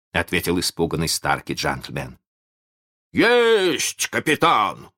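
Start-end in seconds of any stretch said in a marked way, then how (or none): 3.1-4.9 high eager yell; shouting. A narrator's reading. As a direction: shout the reply. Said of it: "заорал Неряха".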